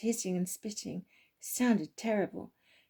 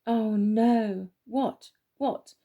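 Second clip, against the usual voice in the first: startled waking; 5 dB louder, much slower than usual. Acted. Waking up in panic.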